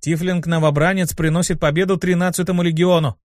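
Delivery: reading aloud. Acted. Imp reading the newspaper to the squad, announcing. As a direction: announce the headline to everyone. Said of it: "прочитал вслух".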